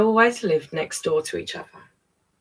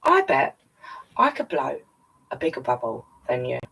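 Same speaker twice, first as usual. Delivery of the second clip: Reuben's boast; 5 semitones lower than usual. Acted. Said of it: "Reuben said".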